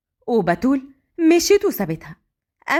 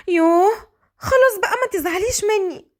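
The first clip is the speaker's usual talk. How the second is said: coaxing daughter; 7 semitones higher than usual. Acted. Daughter coaxes upset mother.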